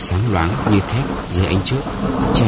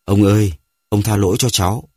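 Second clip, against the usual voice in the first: pleading; 3 semitones higher, 3 dB louder than usual. Acted. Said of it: "van lơn".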